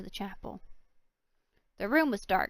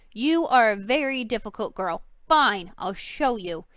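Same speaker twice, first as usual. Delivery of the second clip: exasperated; 7 dB louder than usual. Acted.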